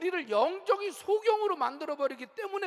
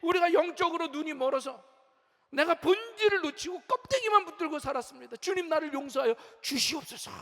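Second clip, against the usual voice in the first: repentant; 4 semitones higher, 5 dB louder than usual. Retold or imitated. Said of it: "가슴을 치며 회개하죠".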